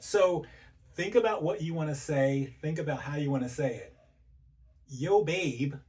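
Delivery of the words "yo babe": easygoing, inviting greeting; relaxed, loving address; friendly opener. Shown as a demonstration. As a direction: call a partner gently and casually. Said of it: "is a good way to say things".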